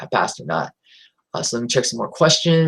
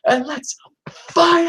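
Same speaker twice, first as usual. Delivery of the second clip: slow, breathy threat to the opponent; menacing whisper; slower than usual. Retold or imitated. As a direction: lean in and whisper the challenge. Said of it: "I'll do my best Eddie impersonation".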